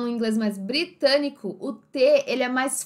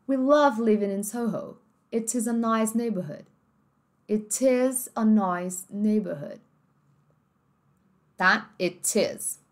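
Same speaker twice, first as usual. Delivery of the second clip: British T; slower than usual. Shown as a demonstration. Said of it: "Como ficaria então no britânico".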